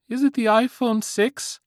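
put-on high squeaky teen voice; squeaky-voiced teen. A narrator's reading. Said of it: "the squeaky-voiced teen".

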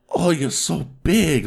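high, drawn-out mock Asian-accented moan; slow, high-pitched fake Asian accent; mimicked accented moan. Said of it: "they moan in an accent".

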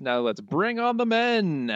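a touch of showman's enthusiasm; mock enthusiasm. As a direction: announce it with gusto. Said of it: "Love the enthusiasm".

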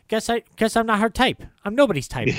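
a hint of a high, sulky Lou; dejected Lou. Lou after failing at seduction, mildly high and mopey. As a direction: mope it out, lightly voiced. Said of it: "and he goes like".

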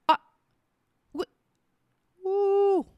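high, breathy disbelief; a gasp of mock outrage; stunned ooh. Real, not acted. Retelling her husband's towel order to viewers, stunned ooh.

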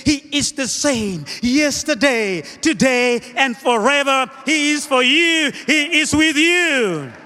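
rhythmic proclamation building at the end; emphatic preaching. Acted. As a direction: announce it to the whole congregation.

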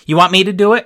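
put-on high, loud eager child; little girl voice. A narrator's reading. Little sister offering at the register, eager child voice. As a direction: chirp it like a small kid.

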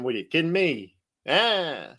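put-on New Jersey accent, incredulous. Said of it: "in my New Jersey accent".

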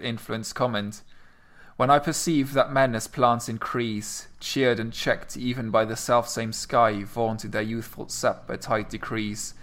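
slow, measured sonnet recital; poem reading. Acted. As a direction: read it out with care, line by line. Reads the sonnet aloud.

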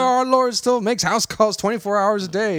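high-pitched mock preacher's cry; hammed-up hallelujah proclamation; exclaiming priest. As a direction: call it out like a jubilant priest. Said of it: "the fucking priest rolls down".

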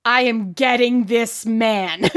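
slow, deliberate, mock resolve; determined reaction. Susanna reacting to her rival's outburst, slow resolve. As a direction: spell out the intent word by word, slowly. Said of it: "Susanna's expression is like".

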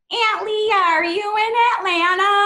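put-on high, excited little-kid voice; imitating young niece. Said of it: "So she'd constantly be like".

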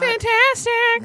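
mock ad voice.

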